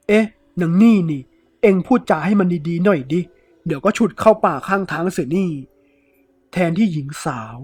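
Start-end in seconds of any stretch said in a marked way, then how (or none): 0.1-5.5 thief turns nasty, voice rising; angry threat. Acted. Thief threatens the woman, angry and louder. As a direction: bark back a crude threat.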